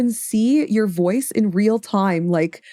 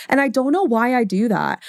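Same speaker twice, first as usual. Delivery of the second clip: "know" and the whole line said higher, lifted for chat; pitched-up stream voice; 4 semitones higher than usual. Shown as a demonstration. Streamer demonstrates to chat her higher-pitched stream voice. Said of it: "I do this".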